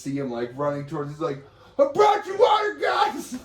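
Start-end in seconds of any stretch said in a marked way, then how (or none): 1.8-3.4 very high, loud, triumphant yell; excited shout. Retold or imitated. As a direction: call it out proudly while running up. Acted quote of friend running up.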